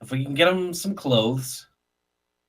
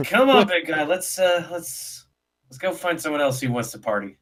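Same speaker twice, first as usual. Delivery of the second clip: lightly played drunk, pitched up at first; acting drunk; 5 semitones higher than usual. Drinker leading big guy off to party, acting drunk. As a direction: coax a pal away like a tipsy reveler. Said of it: "I've been acting drunk".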